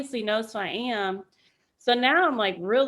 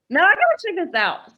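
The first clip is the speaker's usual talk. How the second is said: higher, louder, quick and keyed up; wired curiosity; 8 semitones higher, 7 dB louder, faster than usual. Retold or imitated. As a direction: snap awake with urgent resolve. Deciding to investigate.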